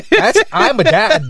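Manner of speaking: proud dad declaration. Real, not acted. To his cohost, boasting about being a dad, loud and high. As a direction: crow it like a proud claim.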